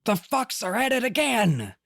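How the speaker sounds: put-on theater-kid rant, pitched high; Dr. Amp. Podcaster performing the requested impression of a web-show ranter, theatrical. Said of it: "go a little theater kid on this".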